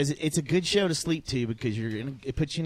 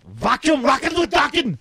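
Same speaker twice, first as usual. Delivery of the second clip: rock announcer shout; 9 semitones higher, 6 dB louder than usual. Acted.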